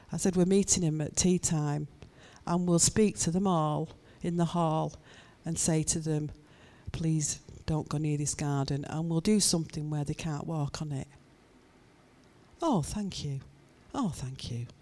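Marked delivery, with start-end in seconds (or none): 0.4-11.1 measured, reassuring promise in a lowered voice; acting out calm reassurance. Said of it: "talking to someone and calming them down". 12.6-14.7 soft, lowered, relieved thanks; acting out a calmed-down woman; mollified thanks. Acted relief of placated woman.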